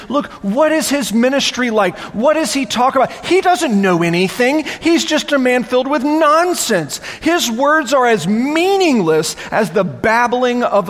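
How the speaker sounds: mock the prophet with contempt. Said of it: "they're making fun of the man".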